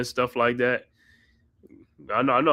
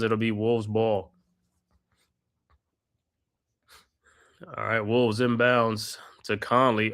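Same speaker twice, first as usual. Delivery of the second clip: steady courtside play-by-play, naming each pass; play-by-play call. Acted. Fan calling the game for his co-host, play-by-play. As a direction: narrate the action like a broadcaster.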